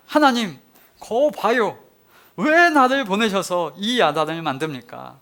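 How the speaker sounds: sulky grievance poured out; whining protest. Retold or imitated. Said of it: "투정하고 아우성 칩니다". (투정하며 아우성치는 목소리)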